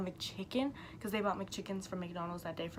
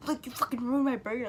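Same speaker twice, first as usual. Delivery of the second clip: higher, louder mock anger; retold pissed-off complaint; 4 semitones higher, 5 dB louder than usual. Friend accusing her over his ruined burger, mock angry. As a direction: imitate him pissed, pitched up and pushed. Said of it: "pissed again".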